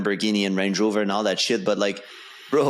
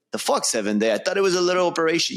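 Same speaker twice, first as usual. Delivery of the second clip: shocked outburst; 7 semitones higher, faster than usual. Retold or imitated. His shocked reply to nurse.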